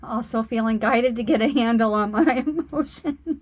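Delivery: overcome, laughing through tears; real tearful emotion. Real, not acted. Reader tells viewers of unseen tears, tearfully emotional. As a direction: try to keep a handle on welling emotion. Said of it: "you can't see the tears".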